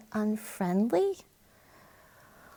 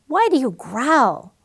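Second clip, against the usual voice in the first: higher, louder little bird voice; sad little bird; 4 semitones higher, 7 dB louder than usual. Acted. Warblers asking Jake why he growls, sad bird voice. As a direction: ask like a worried small bird. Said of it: "they said, looking sad".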